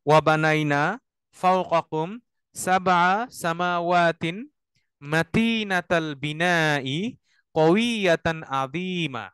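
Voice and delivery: very slow phrase-by-phrase chanted Arabic; recite to repeat. Shown as a demonstration. Teacher leads students to repeat after him. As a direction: chant each phrase slowly for students to echo. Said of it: "আমার সাথে সাথে আপনারা বলেন".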